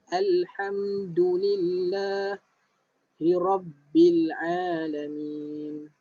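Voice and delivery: slow, drawn-out tajwid recitation; slow Quran recitation. Shown as a demonstration. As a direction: recite it slowly for students to follow. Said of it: "Yang betul". (bacaan tajwid perlahan)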